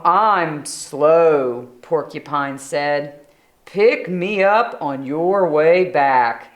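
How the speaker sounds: slow, lazy critter voice; slow porcupine voice. Acted. Porcupine declining the hunt, slow and lazy. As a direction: drawl it lazily.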